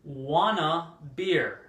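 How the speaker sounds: WANNA run into one word, stretched slowly; slow, clear "Wanna beer" for learners; teacher's drawn-out example of "Wanna"; slow model example. Shown as a demonstration. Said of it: "So here we have examples".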